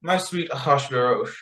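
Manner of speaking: high, sugary coaxing; sweet-talking Esther. Retold or imitated. Esther sweetly coaxing the king into a feast. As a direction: charm the king into a party. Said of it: "Esther says something along the lines of".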